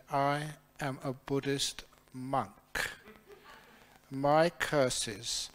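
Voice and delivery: slow, solemn, imposing counter-threat; drawn up to full height. Retold or imitated. Monk answers the gypsy's curse threat, slow and solemn. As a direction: lay it out slowly like a solemn warning. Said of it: "I stood up to full height".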